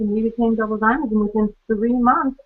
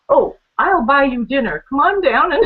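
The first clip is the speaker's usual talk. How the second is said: coaxing invitation; 6 semitones higher, 5 dB louder than usual. Retold or imitated. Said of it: "And he goes".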